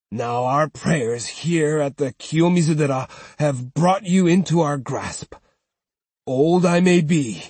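a hint of a frail old man's challenge; withered old man. Old uncle challenging the swordsman, lightly voiced old man. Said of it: "in his withered voice".

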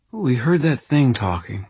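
slurred and sleepy; blurred consonants, drugged; drowsy slurred speech. Acted. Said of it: "consonants in her words had blurred".

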